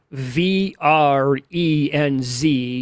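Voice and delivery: slow letter-by-letter spelling. Shown as a demonstration. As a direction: spell each letter clearly and slowly. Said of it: "his first name is spelled".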